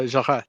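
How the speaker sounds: "Jarret" as zha-REH, silent t; careful French "Jarret"; corrected French pronunciation. Shown as a demonstration. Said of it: "It's pronounced".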